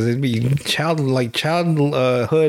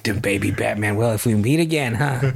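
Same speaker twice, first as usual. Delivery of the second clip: serious Joker; 4 semitones lower than usual. Acted. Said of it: "takes this version of Batman seriously".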